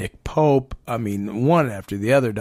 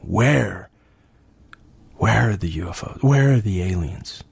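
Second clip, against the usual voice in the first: sarcastic; 3 semitones lower, slower than usual. Retold or imitated. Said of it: "kinda sarcastic, smart ass".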